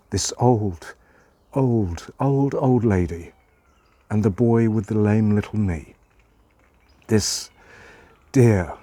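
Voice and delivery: measured, lilting verse reading with pauses; poem recitation. A narrator's reading. Reading a childhood poem to listeners, measured and lilting. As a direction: recite it gently, letting each phrase settle.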